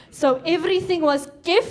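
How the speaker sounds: a touch of South African accent on kif; leaning into South African accent; South African slang. Shown as a demonstration. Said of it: "adopt a South African accent".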